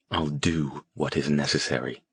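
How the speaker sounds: low, cold and unmoved. Acted. Harrison answering his angry teammates, cold and unmoved. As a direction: state it with icy calm. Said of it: "His tone was colder than they'd ever heard it".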